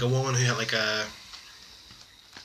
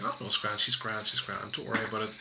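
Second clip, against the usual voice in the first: reassuring; 2 semitones lower, 6 dB quieter than usual. Retold or imitated. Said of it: "I'm like".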